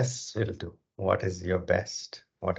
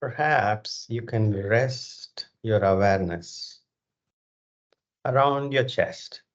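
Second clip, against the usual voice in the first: measured meditation guidance with long, spacious pauses; guided meditation. Real, not acted. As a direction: guide them through breath awareness, phrase by unhurried phrase. Leads a breathing meditation.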